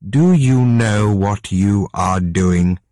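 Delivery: slow, lightly voiced stern mother; a hint of a disapproving queen, slow; mother confronting her son, slow and lightly stern.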